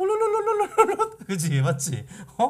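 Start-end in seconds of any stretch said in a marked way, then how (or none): 0.0-1.1 put-on very high, trilling old-lady voice. Speaker imitates a grandmother from an internet meme: imitating the meme grandma's tone. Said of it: "톤이 딱그 할머니 톤이지".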